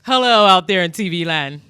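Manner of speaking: loud hammy TV greeting; TV host voice. Pretend. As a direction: announce it to TV land.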